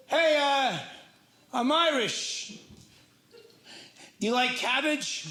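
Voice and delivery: giggling mock pickup line; laughing mock pitch. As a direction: crack up while pitching yourself. Mock Irish pitch to woman, laughing.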